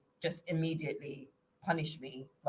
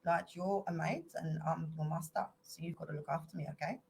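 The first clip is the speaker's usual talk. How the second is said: South African accent, mock bossy master; white South African accent; 4 dB quieter than usual. Shown as a demonstration. Showing off his South African accent, a lightly bossy master. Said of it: "my South African accent".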